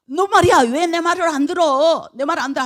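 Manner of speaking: high-pitched mock tirade, easing off; acted angry scolding. Balaam about to beat his donkey, scolding it. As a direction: demand obedience in acted exasperation.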